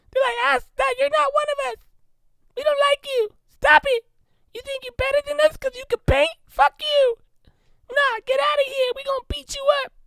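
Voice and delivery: very high squeaky voice. Imagining how elephants talk, the speaker voices them in a high-pitched elephant voice. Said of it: "they had like high pitched voices".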